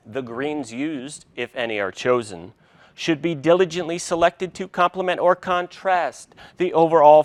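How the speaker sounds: measured, emphatic recitation from a book; reading aloud. Real, not acted. Chef reads his cookbook's salad philosophy to viewers, reciting it emphatically. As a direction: read it out like a prepared soliloquy. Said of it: "read our soliloquy on salads".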